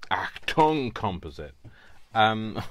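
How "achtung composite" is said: mock German.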